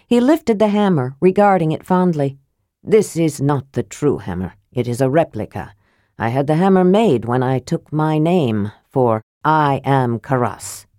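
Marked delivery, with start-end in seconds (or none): 2.8-10.9 proud. Acted. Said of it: "he said proudly".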